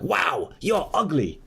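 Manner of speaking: mock rude guy. Guy insulting wife in story.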